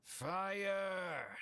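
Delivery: high shouted alarm; screaming. Acted. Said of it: "A scream pierces the silence".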